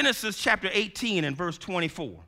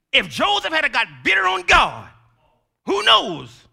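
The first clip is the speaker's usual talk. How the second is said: preaching cry; 9 semitones higher, 9 dB louder than usual. Acted. Preaching peak.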